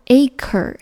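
acre as AY-ker, r sounded last; careful model acre, ending in -ker; correct pronunciation. Shown as a demonstration. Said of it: "读作".

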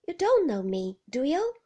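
loud, menacing quoted woman; mock menacing woman, loud; Ben mimicking her. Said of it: "she said".

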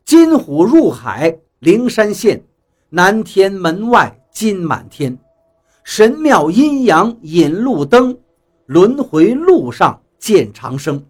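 slow, measured verse recitation; poem recitation. A narrator's reading. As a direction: recite the old verse slowly, line by line. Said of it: "那首诗里面说道". (缓慢地吟诵诗句)

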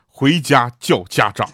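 slow, weighty mock order; deliberate pronouncement. Mock teacher telling a pupil to fetch parents, slowly and deliberately. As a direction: spell out the dreaded order slowly.

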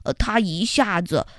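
solemn ant storyteller. Acted. Xiaoyi tells the warning tale. (小易讲可怕的故事)

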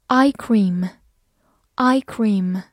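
slow, clear vocabulary repeat; slow model word. Shown as a demonstration. Teacher modelling new words slowly for the class. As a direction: say each word slowly twice. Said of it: "teacher models vocabulary slowly".

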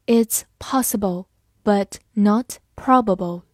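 It's possible, but not probable read slowly and clearly; deliberate slow model reading of It's possible, but not probable. Shown as a demonstration. Teacher reads example slowly for class, deliberate. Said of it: "我们慢读一遍".

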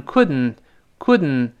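"couldn't" with d released through the nose; nasal plosion. Shown as a demonstration. Teacher shows the fast form, "couldn't" with nasal release. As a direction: hold the tongue on d, hum out the n of "couldn't". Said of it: "鼻腔爆破".

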